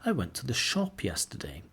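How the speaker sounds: whispered stress model; whispered demo. Shown as a demonstration. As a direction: whisper the sentence. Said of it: "Put the sentence stress or the main stress on shop".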